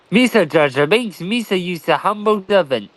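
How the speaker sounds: light Gungan-speak impression, barely altered; Jar Jar Binks. Showing off Gungan to his friend, a hint of goofy sidekick voice. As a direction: playfully slip into a goofy alien sidekick's speech. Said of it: "one language I can speak that's technically not English".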